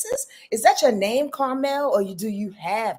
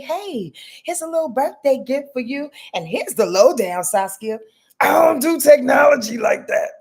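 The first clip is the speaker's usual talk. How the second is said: a hammed-up monster voice, louder at the end; Cookie Monster voice; 6 semitones higher, 5 dB louder than usual. Quoting a friend's birthday note in a Cookie Monster voice. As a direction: put on the Cookie Monster growl for the friend's message. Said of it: "little Cookie Monster voice".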